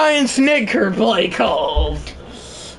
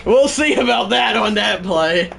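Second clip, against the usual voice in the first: laughing. Real, not acted. Laughing at the play.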